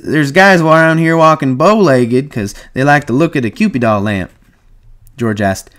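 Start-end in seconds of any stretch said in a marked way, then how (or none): 0.0-4.3 high, loud madam impression; hammed-up madam telling her joke; Susie. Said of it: "And she says".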